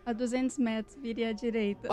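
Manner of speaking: flat robotic navigation voice; GPS voice. Shown as a demonstration. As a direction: read it like a car GPS. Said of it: "Fala assim, duzentos metros, vira à direita, fala aí".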